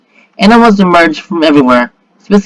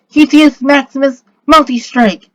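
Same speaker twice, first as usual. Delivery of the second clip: high-pitched attack call; yell; 7 semitones higher, 3 dB louder than usual. A narrator's reading. Girl launches the glowing marbles, high yelled attack call. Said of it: "she yells".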